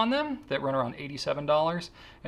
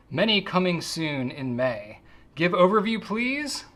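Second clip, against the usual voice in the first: reading a haiku aloud; 4 semitones higher, 4 dB louder, slower than usual. Shown as a demonstration. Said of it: "So here goes".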